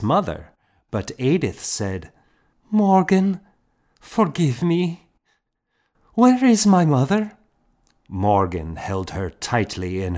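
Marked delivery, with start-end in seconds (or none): 2.7-7.4 put-on much higher, girlish and anxious; a frightened girl begging forgiveness; young girl pleading. A narrator's reading. Girl asking Morgan where her mother is, anxious.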